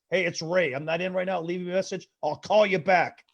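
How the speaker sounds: mock stiff, read-out voicemail greeting; stiff angry outgoing message. Dad's outgoing message, stiff and a bit angry. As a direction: sound like you're reading it off a card. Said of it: "message sounds like this".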